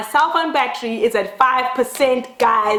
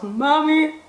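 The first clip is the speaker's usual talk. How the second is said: put-on pleading child; slower than usual. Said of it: "I was".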